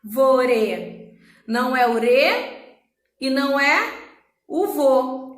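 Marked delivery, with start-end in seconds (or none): 0.0-1.2 "árvore" in separated syllables, "ár" strongest; stress on ÁR. Shown as a demonstration. Teacher repeats the example, "árvore" stressed on "ár". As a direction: split off a strong "ár", then let "vore" fall. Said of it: "É o ar".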